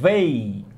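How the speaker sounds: They, tongue between teeth for the th. Shown as a demonstration. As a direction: model They slowly for learners. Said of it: "Você tá falando na frente do espelho?".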